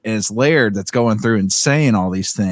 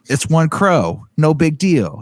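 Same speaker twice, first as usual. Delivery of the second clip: put-on light Boston mobster accent, higher; 6 semitones higher, slower than usual. Friend imitating a Boston camper in the woods, light Boston accent. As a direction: toss it off in a lightly done Boston drawl. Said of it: "my Boston accent needs some work".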